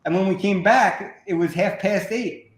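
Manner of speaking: put-on an American hamming up an English accent. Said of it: "just do an English accent for the first sentence".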